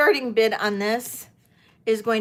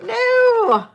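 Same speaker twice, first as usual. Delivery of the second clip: imitated panic; 11 semitones higher, 6 dB louder, much slower than usual. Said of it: "I was like".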